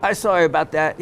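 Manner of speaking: apologetic dealer in an imitated Pakistani accent. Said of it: "I'm sorry for my imitating the accent".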